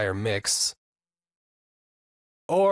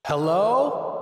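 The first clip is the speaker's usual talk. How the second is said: cave echo; 7 semitones higher, 4 dB louder than usual. Shown as a demonstration. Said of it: "sounds like I'm in some big cavern".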